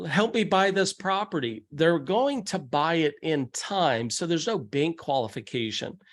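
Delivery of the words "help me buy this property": higher-pitched, lightly acted plea; mock begging. Buyer asking the bank for help, mock begging. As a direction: imitate someone begging, pitch raised. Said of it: "begging for a loan and say".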